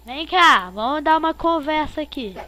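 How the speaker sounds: calling out. Real, not acted. Calling to player.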